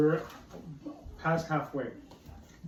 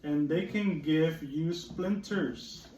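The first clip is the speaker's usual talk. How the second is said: slow, mildly whiny frog; frog's complaint; slower than usual. Acted. Teacher reading the reluctant frog, slow mild complaint. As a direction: drag out the frog's grumble. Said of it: "said the frog".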